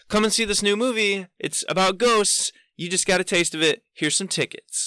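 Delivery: high-pitched upbeat sales pitch; movie promoter. Retold or imitated. Promoter hands victim free tickets, high singsong pitch. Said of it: "she's like".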